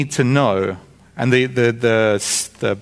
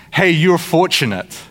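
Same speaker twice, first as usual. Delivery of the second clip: sincere well-wishing hello, unhurried; friendly greeting. Acted. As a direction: toss it out as a slow, friendly greeting. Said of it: "really just like a greeting".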